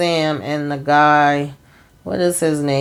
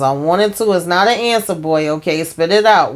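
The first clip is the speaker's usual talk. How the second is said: higher, louder mock scolding of a timid answer; stern boss scolding; 4 semitones higher, 4 dB louder than usual. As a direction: throw his own words back at him, sharp and loud. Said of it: "then Donald says".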